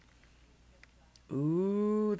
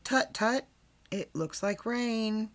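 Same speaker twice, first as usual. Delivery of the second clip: mock weather worry; 4 semitones higher than usual. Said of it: "and say".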